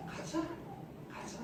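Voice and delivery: soft, patient persuasion; softly cajoling; gentle coaxing. Acted. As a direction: coax a reluctant person along quietly. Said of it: "여태까지는 달겠거든요".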